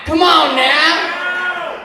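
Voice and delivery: rallying shout. Real, not acted. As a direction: lead the crowd in a big stretched yell. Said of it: "we're gonna do a come on now all together".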